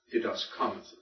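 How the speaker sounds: "Didaskamatha" stressed on ka; accent on antepenult. Shown as a demonstration. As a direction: softly repeat "Didaskamatha" with the weight on KA. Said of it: "put it over the antepenult".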